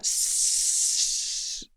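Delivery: a faint breathy hiss, the sound of blood escaping; soft hissing noise. Retold or imitated. Retelling the gunshot victim's dying noise, soft hiss. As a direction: imitate the hiss quietly, barely voiced. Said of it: "this horrible noise".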